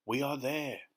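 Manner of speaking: mildly cheery, lifted pitch; trying to be cheerful. A narrator's reading. Grasshopper telling his friends they have arrived, trying to be cheerful. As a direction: announce it with determined good cheer. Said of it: "trying to be cheerful".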